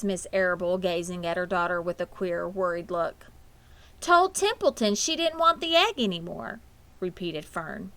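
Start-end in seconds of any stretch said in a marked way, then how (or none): 4.0-6.6 put-on higher, louder child's repetition; insistent little girl voice; girl repeating. A narrator's reading. Fern repeating herself to her mother, insistently.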